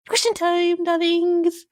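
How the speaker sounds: high, bright call to her audience; gleeful host announcement; sing-song announcement. Acted. Host announces question time.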